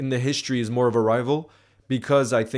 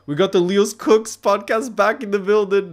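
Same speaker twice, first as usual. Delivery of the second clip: higher, slow put-on announcer voice; mock hype announcer; 9 semitones higher, 6 dB louder than usual. Hyping podcast's return.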